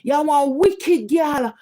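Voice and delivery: mocking his voice note. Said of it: "him send me a voice note".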